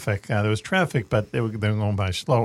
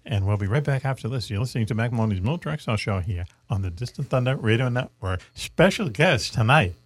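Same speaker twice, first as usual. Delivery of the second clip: smooth radio host sign-off; radio announcer. Acted. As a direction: announce the break like a DJ. Host signs off to break.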